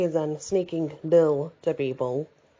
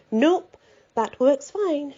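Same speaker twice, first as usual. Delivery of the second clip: lightly voiced older woman; 9 semitones higher, much slower than usual. A narrator's reading. Rhoda voiced, high and slow.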